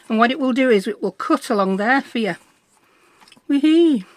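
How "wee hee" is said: gleeful squeal. Real, not acted. Gleeful cry while cutting.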